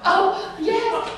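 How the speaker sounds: high, loud, laughing flustered reply; mortified mock squeal; embarrassed laughing. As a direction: giggle through the embarrassment.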